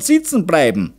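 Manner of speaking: high-pitched, emphatic close to a lecture; lecturing. A narrator's reading. Mother warns husband the girl will stay unwed, lecturing. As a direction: drive the point home as a lecturing mother. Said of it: "dozierte die Zaunerin".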